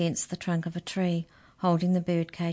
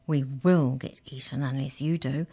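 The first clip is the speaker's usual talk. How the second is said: grim; 3 semitones lower than usual. Acted. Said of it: "said Mallory grimly".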